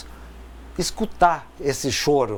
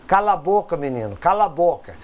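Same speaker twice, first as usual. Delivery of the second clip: mock scolding; faster than usual. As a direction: hush the kid sharply, half-acted. Adulto manda criança calar. (bronca de adulto imitada, leve)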